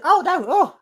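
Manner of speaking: spluttering on a drink; choking. Real, not acted. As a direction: cough and choke mid-sentence. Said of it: "you're choking on your drink".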